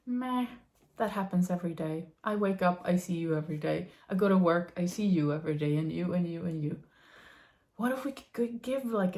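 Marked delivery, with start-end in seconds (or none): 0.1-6.8 a touch lower and quicker, unimpressed; bored meh. Pretend. People shrugging off daily routine, mildly bored and unimpressed. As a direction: rattle it off like it's nothing. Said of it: "we're just kinda like".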